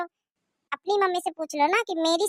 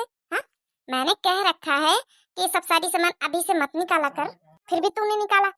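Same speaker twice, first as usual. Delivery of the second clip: angry scolding; 4 semitones higher than usual. Acted. Mother-in-law scolds over blanket.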